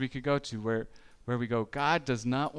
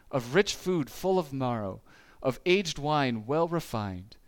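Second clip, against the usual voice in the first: scripture reading. Acted. Reads Isaiah prophecy.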